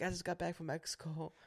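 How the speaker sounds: put-on high apologetic girl voice; poor little girl. Poor little girl saying sorry to a customer, high-pitched. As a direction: imitate a meek young worker. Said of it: "This poor little girl, she's like".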